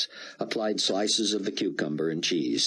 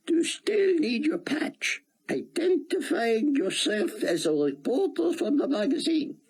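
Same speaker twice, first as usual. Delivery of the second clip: put-on higher, heavy Hebrew-accented rabbi; thick Hebrew accent. A narrator's reading. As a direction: speak English through a thick Hebrew accent. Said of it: "in his thick Hebrew accent".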